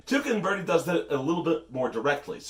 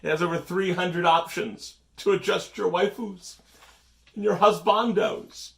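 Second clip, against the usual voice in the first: plain read of the line; infomercial; 5 semitones higher than usual. Pretend. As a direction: read it straight, like news copy. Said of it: "Why am I reading this like an infomercial?".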